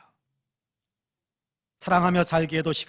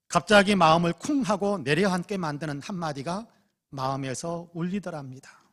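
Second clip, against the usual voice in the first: usual speaking voice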